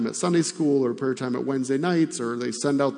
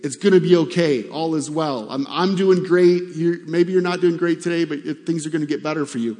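real peppy; 3 semitones higher, 4 dB louder than usual. Retold or imitated. Preacher imitating Christians cheering others up, real peppy. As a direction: play the peppy encourager. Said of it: "be real peppy and say".

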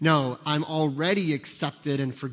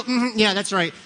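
mock smug agreement; 6 semitones higher, 4 dB louder than usual. Smug reply, mocked.

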